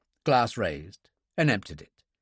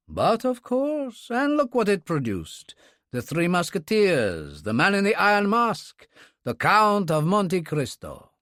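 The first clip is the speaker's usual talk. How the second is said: breathless enthusiasm; 8 semitones higher than usual. A narrator's reading. Dunkley raves about Dumas's novels, breathless with enthusiasm. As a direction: roll out the titles with delight. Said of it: "breathless with enthusiasm".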